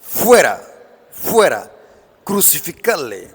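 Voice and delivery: mild mock crowd shout, dropping off; retold shouting. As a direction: call it out in short separate bursts. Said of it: "Pero ellos gritaron".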